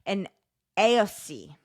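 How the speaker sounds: reading in a put-on Irish accent. Host reads Yeats lore to impressed co-host, Irish accent. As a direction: read it with an Irish lilt and rolled r. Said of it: "blowing me away with your Irish accent".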